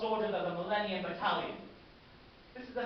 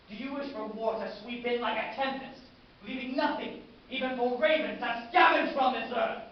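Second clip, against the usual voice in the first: building war cry; 6 semitones higher, 8 dB louder than usual. Acted. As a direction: rise to a loud, high roar. Commander whips troops up for war.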